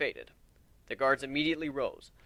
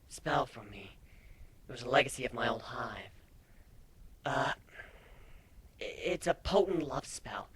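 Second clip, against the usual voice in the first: nervous; 6 dB quieter than usual. A narrator's reading. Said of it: "her wings twitching nervously".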